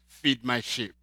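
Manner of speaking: gentle command to Peter; Jesus voice. Acted.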